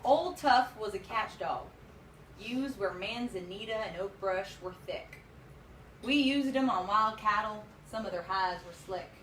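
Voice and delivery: steady poem reading voice; cowboy poetry. Acted. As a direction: read the verse at an even pace. Reads the cowboy poem aloud.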